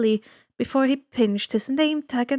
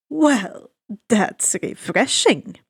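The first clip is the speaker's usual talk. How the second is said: suave ferryman; 3 dB louder, slower than usual. Acted. Ferryman of the dead greeting the boy, slow and silky. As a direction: savor each word like a sly host. Charon amused.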